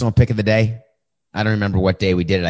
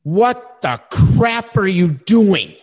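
mock calm dressing-down; 3 semitones higher, 4 dB louder, much slower than usual. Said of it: "I'm very quietly and calmly saying".

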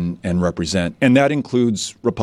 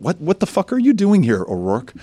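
mock yell at a visiting politician, pitch jumping higher; imitating a hostile voter shouting at the candidate; retold heckler yell; 9 semitones higher than usual. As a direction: bark it like an angry town hall heckler, then drop off. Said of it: "And they'll yell at me".

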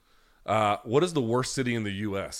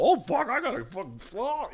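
much higher, frantic squeal of an eager fan; mock eager fan. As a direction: squeal like a fan desperate to chug it. Mock fan chugging antifreeze.

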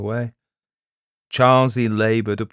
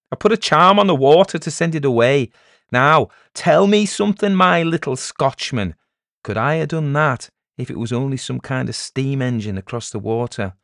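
raised, loud, crowing challenge; triumphant village elder; 6 semitones higher, 7 dB louder than usual. Acted. Elder challenging the peddler after stopping the noise, triumphant. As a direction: lord it over the doubter.

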